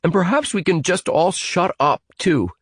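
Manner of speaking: put-on angry boy telling everyone to shut up; heated. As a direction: bite off the words in irritation. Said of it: "said Evan heatedly".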